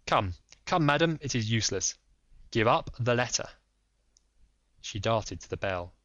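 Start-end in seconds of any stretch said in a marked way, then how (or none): 0.1-3.5 lightly voiced firm detective; polite but firm, a touch raised; Holmes. Holmes pressing the lady, lightly voiced firm.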